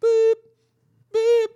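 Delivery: very high, steady boop; high electronic boop, held level; imitated machine beep. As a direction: beep like a rising lift. Imitating lift's beeps going up.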